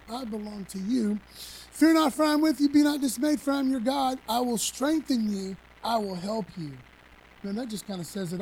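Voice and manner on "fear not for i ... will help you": loud, higher, ringing proclamation of the verse; full preaching voice. Acted. Preacher proclaiming the promise to his congregation, loud and ringing.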